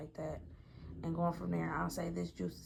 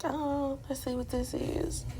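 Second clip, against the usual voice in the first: excited; 8 semitones higher, 4 dB louder, slower than usual. Retold or imitated. Her surprised reaction to gift.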